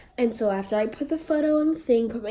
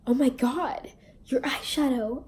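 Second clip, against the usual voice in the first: breathless whisper, no voice; whispered gush; 3 semitones higher than usual. Retold or imitated. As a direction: whisper it like a secret compliment. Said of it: "And she goes".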